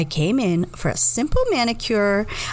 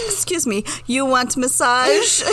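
higher opening, slow questioning offer; lightly voiced salon employee; 4 semitones higher than usual. Another salon employee offering a massage, imitated polite asking. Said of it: "asked by another employee".

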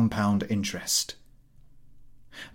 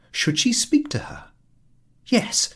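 hushed, breathy inner question; whispered thought; 13 semitones higher than usual. A narrator's reading. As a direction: ask yourself under your breath.

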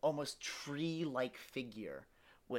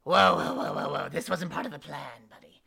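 loud, panicked whoa; alarmed shout; 9 dB louder than usual. Acted. Villain yelling at his betraying partner, loud and alarmed. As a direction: yell at a partner who betrayed you. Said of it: "and they go".

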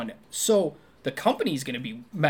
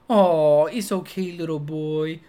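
imitated cooing, big "oh" then settling; consoling a little kid; 6 dB louder, slower than usual. Woman comforting a little boy, mock babytalk. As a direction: soothe a small child. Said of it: "like a little kid who's crying".

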